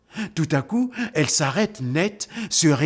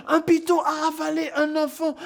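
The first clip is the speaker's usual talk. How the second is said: mock panicked cry. Echoing the crowd's cry.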